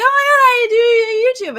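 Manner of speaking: high, loud, near-crying gush; overexcited squeal. Retold or imitated. Starstruck contestant telling producer her job, squealing. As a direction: blurt it out like you can't believe it. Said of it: "And you're like".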